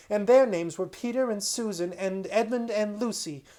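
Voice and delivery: put-on high, bright-eyed rush of a boy telling a story; excited child. Boy Caspian excitedly telling his uncle about Narnia. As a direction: gush it out like a thrilled child.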